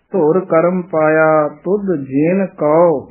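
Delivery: slow, stopping at ਕਉ; ਜਿਨ said plain without nasal, with a pause after ਕਉ. Shown as a demonstration. Teacher shows the pause at ਕਉ, slowly. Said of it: "ਇੱਥੇ ਵਿਸਰਾਮ ਕਉ ਤੇ ਵਿਸਰਾਮ ਲਾਓ".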